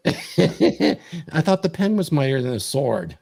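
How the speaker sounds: slow, laughing through a teasing comeback. Real, not acted. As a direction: chuckle while you tease him. Teasing retort after sword remark.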